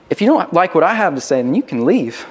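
mildly exasperated, acted dismissal; a touch of fed-up impatience. Exasperated speaker dismissing unwilling listeners, understated exasperation. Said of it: "Others are just exasperated".

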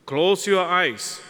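slow down on "Close your eyes"; lingering, slowed repeat of "Close your eyes"; slow, soothing. Shown as a demonstration.

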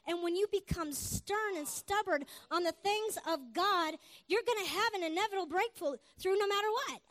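emphatic preacher's cadence; preaching. Real, not acted. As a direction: drive the promise home to the congregation. Preaches with force to congregation.

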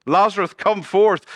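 loud, high, drawn-out summons; commanding call. Acted. Jesus summons Lazarus from the tomb, commanding call. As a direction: call out slowly with full authority.

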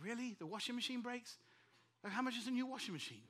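a touch of incredulous questioning; mild retold disbelief. Pastor reacting to yet another breakdown, mildly incredulous. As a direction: echo the bad news as a question.

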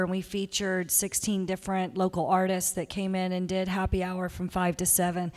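hoarse, fading voice; losing voice. Real, not acted. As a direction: talk through a worn-out, hoarse voice. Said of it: "Sorry, I'm losing my voice".

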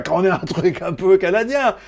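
mock Québécois accent; hammed-up Québécois twang; Canadian accent. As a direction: put on a joking French-Canadian accent. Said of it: "avec un accent tabarnak un peu".

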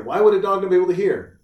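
high, fast imitated child; daughter's voice. Imitating his daughter puzzled by deaf dogs, high quick child. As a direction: fire off a kid's puzzled question. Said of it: "my daughter got a book".

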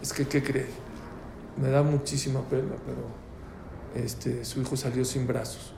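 subdued, grave doctor breaking bad news; very serious doctor. Doctor apologising to the father about the baby, very serious. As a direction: deliver it soberly, with hesitant pauses. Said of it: "Muy serio el doctor".

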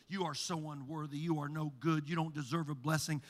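low, soft sneering accusations; taunting adversary voice. Acted. The inner adversary voice accusing Hannah, low and soft. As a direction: murmur contempt at her back. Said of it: "there's this voice".

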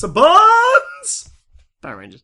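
high, loud, drawn-out announcement; trailer announcer voice. Acted. Mock announcer again.

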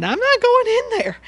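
comic high-voiced refusal; high mock refusal. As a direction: squeak out a stubborn no. Imitating David refusing, high voice.

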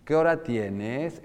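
slow question with a long rising end; exaggerated question rise. Shown as a demonstration. Teacher shows the rising question tune. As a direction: stretch the end of "tienes" upward. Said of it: "Me explico".

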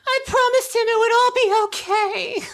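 tearful wail, voice breaking; crying. Acted. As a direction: sob out the grief. Grieving over Cinnamon's loss.

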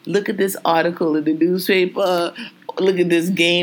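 slow, even-levelled small talk; talking very mildly. Shown as a demonstration. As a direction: keep it mild and unhurried. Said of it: "We'll talk very mildly".

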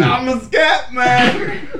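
scat-singer voice. Pretend. Claims possession by scat man.

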